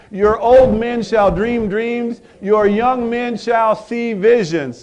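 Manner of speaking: slow, measured reading in a steady rhythm; better cadence. Shown as a demonstration. Congregation rereading scripture in slow, measured cadence. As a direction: give each phrase its beat. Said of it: "we're gonna try that again in better cadence".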